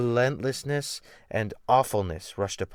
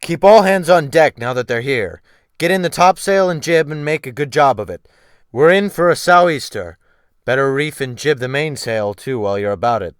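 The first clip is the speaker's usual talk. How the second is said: barked loud commands, a little higher; brisk loud orders; 4 semitones higher, 11 dB louder than usual. A narrator's reading. Captain ordering the mate before a storm, brisk loud commands. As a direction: rap out orders over the storm. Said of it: "Wolf Larsen said briskly to the new mate".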